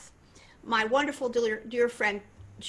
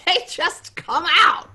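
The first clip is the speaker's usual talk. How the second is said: high, loud burst, drawn out; exuberant exclamation; 8 semitones higher, 12 dB louder, slower than usual. Shown as a demonstration. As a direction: belt it out high and slow, showing how easily it comes. Boasting of effortless high notes.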